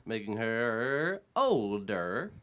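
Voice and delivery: slow, showy announcer voice; announcer read. Acted. Host opening the birthday segment to the podcast crowd. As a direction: present the birthday like a broadcast.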